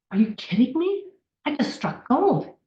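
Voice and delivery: high-pitched retold astonishment; amazed disbelief. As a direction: relive a thrilling discovery, voice lifted. Retold amazed reaction to video.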